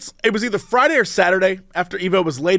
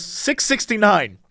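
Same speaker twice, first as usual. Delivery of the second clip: lightly voiced clerk stating a price, drawn out; quoted store clerk; slower than usual. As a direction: imitate a clerk giving the price slowly. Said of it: "She goes".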